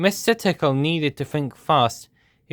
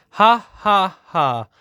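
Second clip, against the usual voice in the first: big, loud ha ha laugh, higher; roaring laugh; 5 semitones higher, 5 dB louder, slower than usual. A narrator's reading. Dragon roaring with laughter while being tickled. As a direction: roar out the laughter. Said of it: "roared the dragon".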